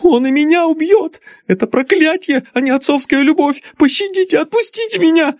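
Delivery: very high, panicked plea; terrified begging. Acted. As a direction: beg to be spared. Daughter begs in terror.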